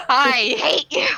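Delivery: slow mock hatred at normal pitch; milder mock hatred. Player replays hating the character, slow mild mock anger. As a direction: draw it out in half-hearted outrage. Second take of mock outburst.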